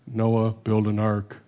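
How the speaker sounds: a mock divine command, low and drawn out; God in Cosby's skit. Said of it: "it reminds me of Cosby and the Noah skit".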